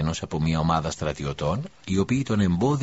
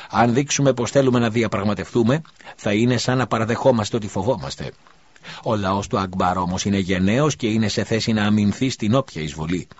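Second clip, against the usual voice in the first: rousing speech; 4 semitones higher, 4 dB louder than usual. Acted. Priest rallies crowd gesturing.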